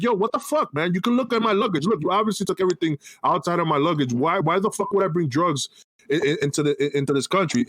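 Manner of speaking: a mild mock outburst at a pushy customs officer; retold angry protest. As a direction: throw it back at him, fed up. Third time cop says tell me.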